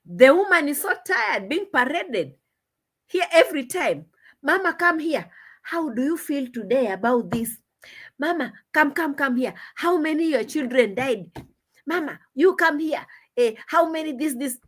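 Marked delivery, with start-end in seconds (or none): 4.4-14.6 mock summons. Mocking Marwa calling the grandmother.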